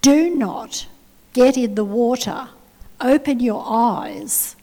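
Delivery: imitating a loud, commanding voice from nowhere. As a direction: deliver a loud, spaced-out warning. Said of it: "a loud voice said".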